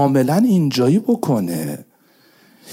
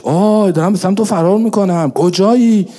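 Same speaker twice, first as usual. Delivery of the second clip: impassioned cry; 7 semitones higher, 4 dB louder than usual. Acted. Voices the supplicant calling God.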